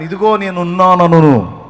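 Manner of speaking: loud, slow, ringing declaration; God's answering shout. Retold or imitated. Preacher voices God answering the crying believer, loud and slow. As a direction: boom it out as God's promise. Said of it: "నీవు మొర్ర పెట్టగా ఆయన".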